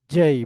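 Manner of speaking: জেই with "j" and a gliding "ay"; corrected English J. Shown as a demonstration. Teacher shows how to say J, corrected pronunciation. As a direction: say জেই firmly as "jay". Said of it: "সবাই আমার সাথে".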